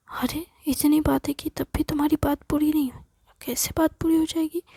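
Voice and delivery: mildly exasperated disbelief; exasperated husband. Acted. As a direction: rib a wife about endless chatting. Husband teases wife over long call.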